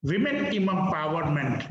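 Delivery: "women" said wimin, slowly, before "empowerment"; correct plural. Shown as a demonstration. Teacher drills the plural phrase, correct plural. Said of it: "but that is wrong".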